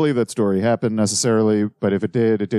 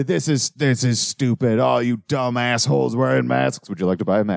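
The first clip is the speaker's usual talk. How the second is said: imitating Alex. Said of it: "just like the".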